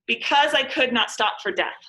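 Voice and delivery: every second word stressed: I, not, for unstressed or light, death strong; iambic beat. Shown as a demonstration. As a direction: read "Because I could not stop for death" in da-DUM rhythm. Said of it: "You can hear the pirate limp".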